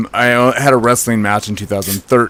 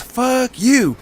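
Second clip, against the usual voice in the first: mock snarl, pitched much higher; retold insult; 13 semitones higher than usual. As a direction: toss off a rude comeback in a higher voice. Retold guy's rude reply.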